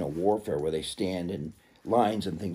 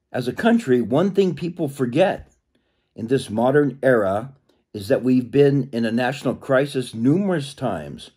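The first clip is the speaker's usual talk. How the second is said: louder, higher-pitched read-aloud voice; 3 semitones higher, 5 dB louder than usual. Acted. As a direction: project the book's opening to listeners. Reads the book aloud.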